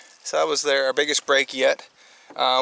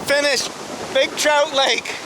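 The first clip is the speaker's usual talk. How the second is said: raised voice against the wind; shouting over wind; 4 semitones higher than usual. Real, not acted. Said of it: "I don't know if you can hear me over the, the wind".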